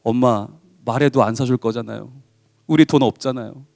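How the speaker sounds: put-on a small boy quietly explaining they have no money; sad child's plea. Son quietly telling his mother they are poor, sad and soft. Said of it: "아이가 말합니다".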